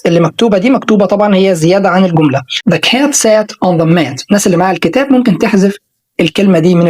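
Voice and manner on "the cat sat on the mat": The cat sat on the mat read slowly with open a sounds; slow teaching read. Shown as a demonstration. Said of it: "بننطق بالراحة".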